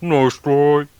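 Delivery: high, loud mock Australian accent; weird Aussie accent. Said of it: "in this, uh, weird Aussie, uh, accent".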